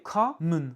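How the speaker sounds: common with a stressed COM and a reduced final schwa; common, first syllable punched; English word common. Shown as a demonstration. Teacher repeats common with reduced ending. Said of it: "le M O N de la fin n'est pas accentué".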